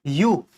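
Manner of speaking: "यू" said as a drawn-out "yoo"; pronunciation demo. Shown as a demonstration. Teacher showing students an unusual word, "यू" pronounced "yoo". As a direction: say "यू" with a clear y glide at the start. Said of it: "जो pronunciation है वो बहुत ही ज्यादा अलग है".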